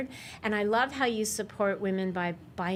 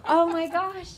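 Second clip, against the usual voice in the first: surprised; 7 semitones higher than usual. Real, not acted. Surprise guest walks in.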